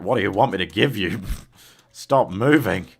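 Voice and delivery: mock pleading game voice, slow; voicing the game. Streamer voicing the game as a pushy bargainer. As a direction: play the stubborn game bargaining with you. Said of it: "It's going like".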